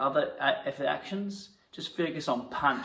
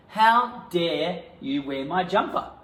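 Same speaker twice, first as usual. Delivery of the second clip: mock outrage; 4 semitones higher, 4 dB louder, slower than usual. Improvised quarrel.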